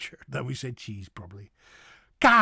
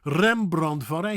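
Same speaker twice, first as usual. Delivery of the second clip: slow clear Dutch; 4 dB louder, much slower than usual. Shown as a demonstration. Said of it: "He was not called".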